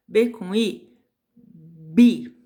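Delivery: "bi" bem mais alto, destacado; sílaba gritada para a turma ouvir; sílaba em voz alta. Shown as a demonstration. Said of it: "a gente vai falar as sílabas em voz alta". (professora pronunciando "bi" forte e alto)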